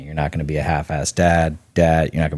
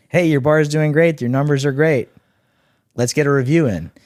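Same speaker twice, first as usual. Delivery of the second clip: much higher, bright sing-song buyer; cheery buyer voice; 9 semitones higher, 3 dB louder than usual. Retold or imitated. Buyer praising the bar's numbers, much higher and cheery. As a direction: play the overly friendly buyer. Acting out a retail buyer again.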